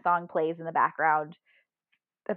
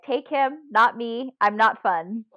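higher and louder, hammed-up begging; mock plea; 4 semitones higher, 6 dB louder, slower than usual. Joking to aliens, take him instead, mock pleading. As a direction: offer up your friend in mock panic.

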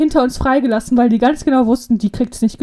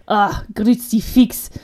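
Austrian doctor; slower than usual. Retold or imitated. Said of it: "von so einem österreichischen, äh, Arzt".

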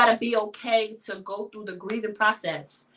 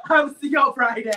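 repeating it louder; 5 dB louder, faster than usual. Real, not acted. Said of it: "I just said".

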